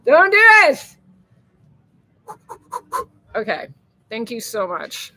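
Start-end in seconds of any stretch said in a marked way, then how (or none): 0.0-1.0 high and loud, a touch teary; pleading with herself. Real, not acted. Touched vlogger telling herself not to cry, high and loud. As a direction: beg yourself not to cry. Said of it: "I'm gonna start crying".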